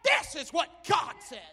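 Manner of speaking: rhythmic pulpit build; preaching refrain. Acted. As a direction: hammer the refrain at the crowd. Call and response refrain.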